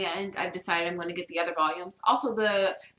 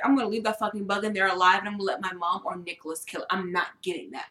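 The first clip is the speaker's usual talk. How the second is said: ordinary delivery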